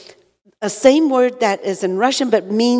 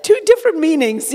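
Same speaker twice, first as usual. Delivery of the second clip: words through laughter, a bit higher; laughing; 5 semitones higher than usual. Real, not acted. Wife still laughing while explaining the word mix-up.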